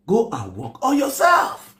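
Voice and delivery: high, slow shouted Go and work on yourself; loud shouted go and work on yourself. Real, not acted. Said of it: "repeated louder".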